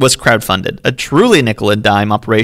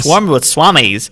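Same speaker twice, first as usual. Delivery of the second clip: slow relish; 2 semitones higher, slower than usual. Shown as a demonstration. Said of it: "should I read an old-timey voice".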